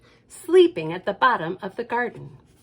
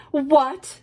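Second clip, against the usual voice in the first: surprised; 4 semitones higher, 5 dB louder than usual. Acted. Family's astonished reply.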